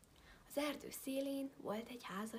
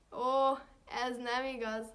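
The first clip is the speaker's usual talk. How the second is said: disbelieving fox; 9 dB louder, slower than usual. A narrator's reading. Fox doubts wolf's story.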